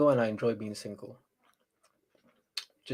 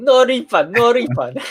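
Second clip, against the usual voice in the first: higher, louder put-on Asian accent; 9 semitones higher, 7 dB louder, slower than usual. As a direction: chant it in a stereotyped Asian accent. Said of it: "I'm gonna say it in the Asian accent".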